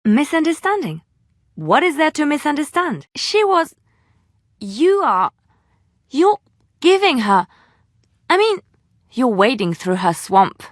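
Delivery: can't finish her sentences for indignation; flustered disbelief. Acted. Companion confronting the hero about Morrigan, flustered and indignant.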